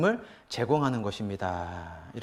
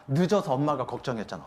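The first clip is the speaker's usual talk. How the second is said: worried mother; 4 dB quieter than usual. Shown as a demonstration. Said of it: "더 좋은 아이 메시지는".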